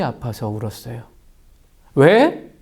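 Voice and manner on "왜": ordinary delivery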